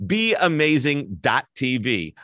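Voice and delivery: "Be amazing dot T V" said slowly, word by word; careful correction. Real, not acted. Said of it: "I'm stuttering over myself".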